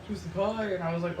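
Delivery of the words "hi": briefly mimicked greeting in her voice; lightly mock how she says hello; a small put-on voice; imitating a coworker's voice. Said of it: "Like, her voice was like".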